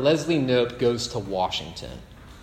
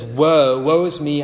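anguished cry; 6 dB louder than usual. Retold or imitated. Isaiah cries woe before God.

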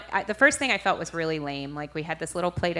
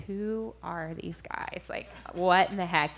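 mock suspicion of newcomers; puzzled onlookers. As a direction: retell a baffled stare, stretching the first words. Onlookers eyeing the strangers, retold.

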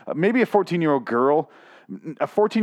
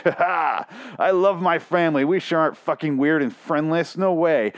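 higher, hammed-up sarcastic cheer; mock cheerful; 5 semitones higher than usual. Reader parodies a proud family man, mock cheer. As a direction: pretend to gush about the family. Mocking the writer as cheery dad.

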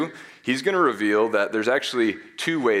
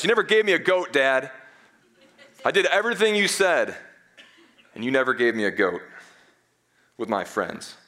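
put-on whiny older brother; 4 semitones higher than usual. Older brother whining to his dad about the goat. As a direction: whine like a sulking teenager. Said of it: "this whiny older brother".

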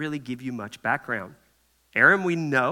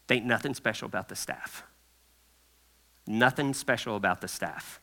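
confiding aside; 5 semitones lower, 8 dB quieter than usual. Acted. Preacher drops to confiding aside.

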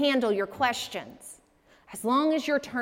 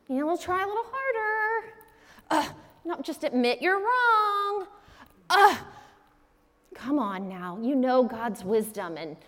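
dismissive friends. Retold or imitated. Friends brushing Job off dismissively.

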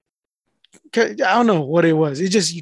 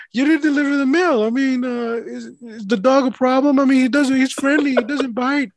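higher-pitched, articulate imitation of a customer; suddenly clear speech; 7 semitones higher than usual. Mail carrier imitating customer asking about undelivered mail, clear and articulate. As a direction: question him in full, clear sentences. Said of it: "I've never heard him talk like this".

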